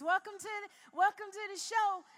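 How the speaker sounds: high, eager nervous greeting; old high host voice. Retold or imitated. Recalling her nervous talk show pilot, high and eager. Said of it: "I used to talk like this".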